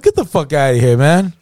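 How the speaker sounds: mild acted disbelief, rising at the end; retold scoff, starting near normal pitch; dismissive disbelief. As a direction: brush it off as nonsense. Friend's first acted disbelief.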